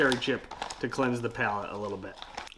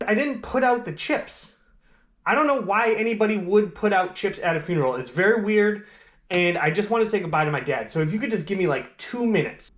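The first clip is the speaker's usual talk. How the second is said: annoyed; 4 semitones higher than usual. Acted. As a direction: snap back, fed up. Eulogist annoyed at interruption.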